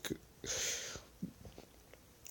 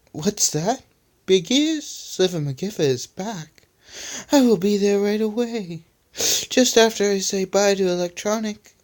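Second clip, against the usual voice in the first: villain voice; 8 semitones higher than usual. Acted. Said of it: "said Spidely".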